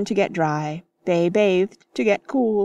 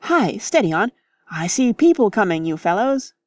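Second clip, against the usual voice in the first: warning call; 2 semitones higher than usual. Acted. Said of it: "Then his voice changed".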